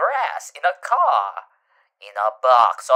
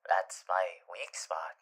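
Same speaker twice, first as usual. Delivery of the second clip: whispering; 5 semitones lower, 10 dB quieter than usual. Acted. Hushed confession.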